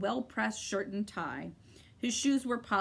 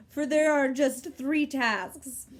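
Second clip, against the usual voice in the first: happy; 5 semitones higher, 6 dB louder, slower than usual. A narrator's reading. Gentleman voiced.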